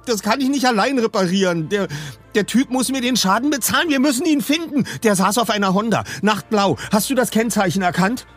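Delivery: high, agitated tirade; angry rant. A narrator's reading. Peter rails at the rider who wrecked his car, furious. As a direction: rant in exasperated outrage.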